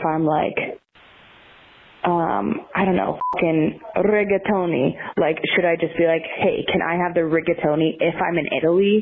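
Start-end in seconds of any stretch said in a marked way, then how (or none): 4.0-4.9 rigatoni with a rolled R at the start. Shown as a demonstration. Caller showing how it might be said in Italy, rolled R. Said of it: "if you're able to roll your R's". 6.4-8.0 plain American rigatoni, R not rolled; American accent. Shown as a demonstration. Caller ordering in Italy as an American, American accent. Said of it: "say them with an American accent".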